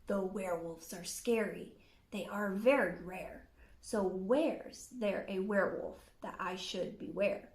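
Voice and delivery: lightly growled question; lightly voiced wolf. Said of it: "he said".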